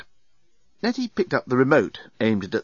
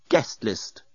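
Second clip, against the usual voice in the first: announcing. Acted. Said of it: "announced the robot".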